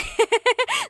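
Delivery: high giggling laugh; self-amused laugh. Real, not acted. Host remembering her English mistake, laughing at herself. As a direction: laugh at your own blunder.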